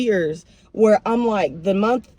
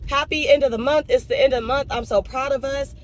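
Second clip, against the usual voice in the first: higher-pitched, gushing retold voice memo; emotional self-congratulation; 4 semitones higher than usual. Recapping her voice memo to Chelsea, emotional and proud. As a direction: gush proudly, retelling a voice memo. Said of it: "getting emotional talking to Chelsea".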